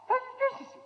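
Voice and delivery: astonished exclamation. Retold or imitated. Amazed at the grown girl.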